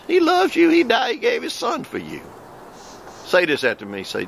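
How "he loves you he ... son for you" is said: preaching shout. Real, not acted. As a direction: cry it out to the crowd. Preaching climax.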